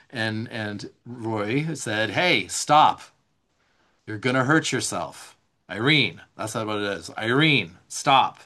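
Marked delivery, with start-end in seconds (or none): 2.1-6.2 put-on a louder, firm stop to a child; sharp fatherly warning, louder. Dad warns daughter cutting toward herself, loud and firm. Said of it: "voice was louder, lower". 7.2-8.4 a louder, low, firm father's call; louder firm stop. Retold or imitated. Dad stops daughter mid-cut, louder and lower. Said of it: "Like, voice was louder, lower".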